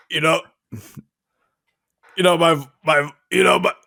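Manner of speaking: a light Donald Junior voice, hesitant and stammering; a lightly voiced, halting Donald Junior; Donald Junior impression. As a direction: stumble through it like Donald Junior. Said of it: "working on my Donald Junior".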